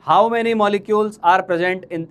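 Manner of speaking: how many molecules are present in spoken very slowly; slow teacher emphasis. Shown as a demonstration.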